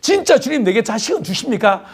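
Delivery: a sulky, grumbling Abraham, lightly voiced; a hint of curt complaint to God; blunt and curt. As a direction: mutter it like a fed-up old man, half-hearted. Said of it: "퉁명스럽게 막 이야기하고".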